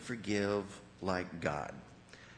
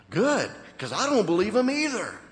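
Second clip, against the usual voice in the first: louder, higher, punchy agreement; emphatic pastor's retort; 9 semitones higher, 7 dB louder than usual. Retold or imitated. Pastor answering the doubting wife, emphatic. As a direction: hit it hard as a blunt reply.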